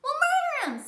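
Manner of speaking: very high, loud bragging; loud bragging kid; boastful. Acted. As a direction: gloat about winning. Dee Dee boasting.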